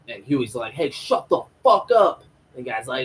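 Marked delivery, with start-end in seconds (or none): 0.7-2.2 higher, louder acted snap-back; imitated angry retort. Huey answering the screaming protester, imitated angry retort. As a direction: shout down a heckler, mockingly.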